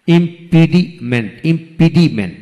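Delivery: ইম্পিডিমেন্ট in separate beats; syllable by syllable. Shown as a demonstration. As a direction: break ইম্পিডিমেন্ট into its parts. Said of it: "যে ওয়ার্ডে তিনটি syllable থাকে".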